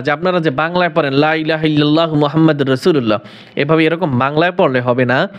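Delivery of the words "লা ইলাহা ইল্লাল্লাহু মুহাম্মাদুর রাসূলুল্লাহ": rushed "লা ইলাহা ইল্লাল্লাহু মুহাম্মাদুর রাসূলুল্লাহ" with Bengali sounds; ভুল বাংলা উচ্চারণে দ্রুত পড়া; fast Bangla-style reading. Shown as a demonstration. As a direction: say it quickly the careless Bengali way, no long vowels. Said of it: "এভাবে বাংলায় বললে হবে না".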